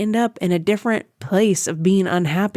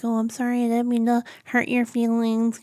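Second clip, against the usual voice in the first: mock apology; 5 semitones higher, 3 dB quieter than usual. Mocking an overly apologetic partner.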